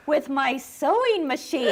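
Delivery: laughing quote. Retold or imitated. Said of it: "And she goes".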